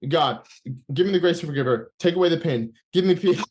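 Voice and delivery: re-enacted prayer that bursts at the last word; prayer broken by laughter. Man praying through tears suddenly starts laughing, re-enacted laughing break. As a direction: pray evenly, then crack up on PEACE. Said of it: "In the middle of the word peace, I start, uh, laughing".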